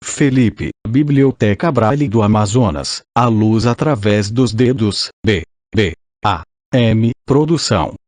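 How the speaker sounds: robotic synthesized voice reading. Real, not acted. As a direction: computer text-to-speech voice. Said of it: "com voz sintetizada".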